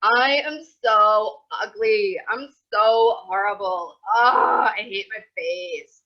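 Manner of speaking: hammed-up despair over own face, loud and slow; loud, slow mock anguish; mock self-loathing wail. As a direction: wail it like a dramatic teen in the mirror. Self-critical voice acted out.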